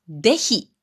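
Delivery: でひ said de-hi, d in place of z; Wakayama pronunciation. Shown as a demonstration. Speaker showing how Wakayama folk say ぜひ, でひ with d. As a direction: say でひ with a d where standard has z. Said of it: "ぜひっていう言葉".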